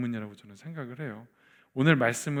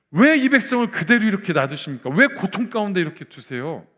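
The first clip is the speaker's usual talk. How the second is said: acted protest on behalf of others, starting high and loud; pleading complaint; 4 semitones higher, 4 dB louder than usual. Moses complaining to God for his people, raised pleading protest. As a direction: plead indignantly, then ease off. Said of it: "백성 편에서 지금 원망 불평하는".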